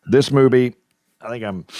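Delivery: nose whistling on the breath; talking with a whistling nose. Real, not acted. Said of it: "my nose is whistling there".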